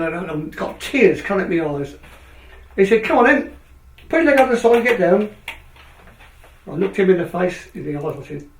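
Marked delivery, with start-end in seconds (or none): 3.0-5.3 retold doctor's order, pitched up; brisk urging. Surgeon ordering a tearful patient out of bed, briskly urging. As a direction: chivvy the patient along in a higher voice.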